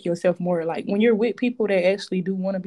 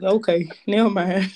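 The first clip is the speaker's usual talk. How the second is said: deflated laugh; 4 dB louder than usual. Retold or imitated. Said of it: "I'm gonna be looking like".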